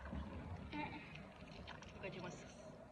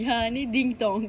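slow sing-song; 5 dB louder, much slower than usual. Shown as a demonstration.

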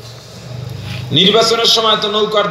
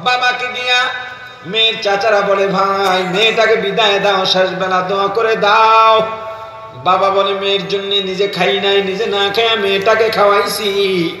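plaintive sing-song sermon storytelling; melodic preaching. Real, not acted. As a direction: chant the farewell story with drawn endings. Preacher chants the family's farewell. (করুণ সুরে ওয়াজ)

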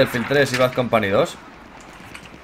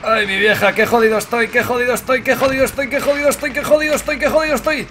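rising whine; 8 semitones higher than usual. Real, not acted. Badly hurt, whining repeatedly.

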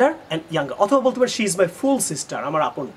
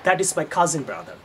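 slow wrong example; 2 semitones lower, much slower than usual. Shown as a demonstration. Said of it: "আপনার এটা বলার দরকার নাই".

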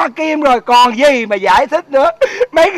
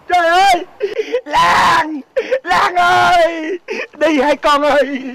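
hammed-up wailing; 3 semitones higher, slower than usual. Wailing for Lan.

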